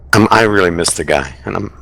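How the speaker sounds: holding back tears while speaking; choking up. Real, not acted. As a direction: voice tight with held-back grief. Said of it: "sorry I'm choking up a little bit".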